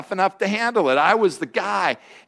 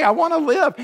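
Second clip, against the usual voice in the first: emphatic refrain; 8 semitones higher than usual. Real, not acted. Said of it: "repeated refrain".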